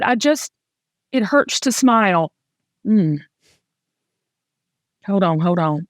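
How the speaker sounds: real, halting emotion with long pauses; emotional. Real, not acted. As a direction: stop to compose yourself between phrases, fighting tears. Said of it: "I'm gonna get emotional talking about it".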